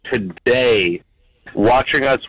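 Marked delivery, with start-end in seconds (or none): 0.1-1.0 emotional. Real, not acted. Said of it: "I'm getting emotional right now".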